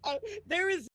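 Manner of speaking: high, strained fake laughter; forced laugh. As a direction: push out a laugh you don't feel. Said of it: "You're forcing yourself to laugh".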